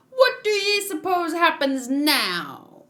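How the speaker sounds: put-on high, drawn-out pirate-accent question; improvised pirate accent. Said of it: "I don't know what accent to do here".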